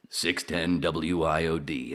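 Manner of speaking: slow radio station ID; slow, deliberate station ID read; radio jingle. Retold or imitated. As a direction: spell out the call letters like a station jingle. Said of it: "this rejoin".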